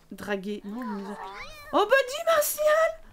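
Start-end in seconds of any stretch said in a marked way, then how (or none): 1.7-3.0 high, loud delighted call of a name; bright hailing shout; excited call. Real, not acted. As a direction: call him out, thrilled. Calling out to a Sim.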